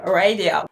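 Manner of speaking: "radio" as English "ray-dio" with a clear English R; initial R. Shown as a demonstration. Teacher contrasting English "radio" with the Spanish word. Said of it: "el monstruo se despierta y hace mucho ruido".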